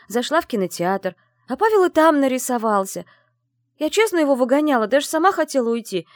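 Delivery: high, loud rushed confession; blurting confession. Acted. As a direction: spill it all at once. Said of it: "Как на духу выложила я".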